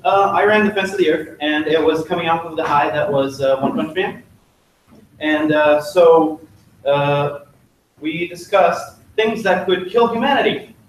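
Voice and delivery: muffled inside a helmet; talking from inside a knight helmet. Real, not acted. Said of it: "I can't hear myself in this helmet".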